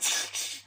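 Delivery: hissy crashing-glass noise made by mouth; quick vocal sound effect of shattering glass; imitated smash noise. Acting out the window smash.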